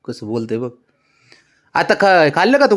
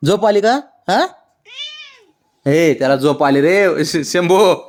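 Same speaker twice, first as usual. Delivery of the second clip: pet talk; 9 semitones higher, 5 dB louder than usual. Real, not acted. Owner cooing to her sleepy dog, high. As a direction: coo over the sleepy dog.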